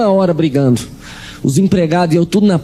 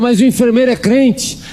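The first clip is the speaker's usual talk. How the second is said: a hint of his mother, pitched up; mother's voice; 9 semitones higher than usual. Preacher voices his mother telling him she'll convert, lightly raised. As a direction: lightly voice the mother announcing her plan.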